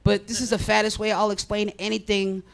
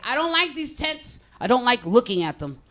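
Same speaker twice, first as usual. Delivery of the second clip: mock complainer; 4 semitones higher than usual. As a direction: whine about the tents like a fussy neighbour. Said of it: "I heard someone say".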